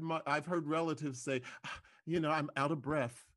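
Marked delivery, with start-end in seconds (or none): 1.6-3.2 BREATH said as breff; BREATH with F in place of TH; F for final TH. Retold or imitated. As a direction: quote a relative, ending BREATH on an F. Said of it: "elements of that F".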